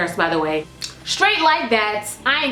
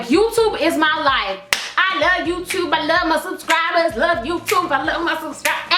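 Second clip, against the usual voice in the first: hypey; 3 semitones higher than usual. Pretend. Hyping up her subscribers, mild mock hype. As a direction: hype it up for the viewers, playfully. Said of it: "I had to get hypey for y'all".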